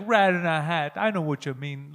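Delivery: lightly voiced imitation of a friend; friend impression. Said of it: "That's my impression of him".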